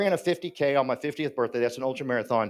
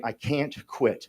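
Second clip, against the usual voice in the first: desperate plea; 4 semitones lower, 5 dB quieter, much slower than usual. Retold or imitated. Crying into a mirror.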